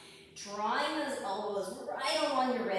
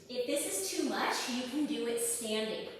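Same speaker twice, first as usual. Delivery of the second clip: winded, breathing hard between words. Real, not acted. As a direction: talk while short of breath. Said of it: "Sorry, I'm out of breath".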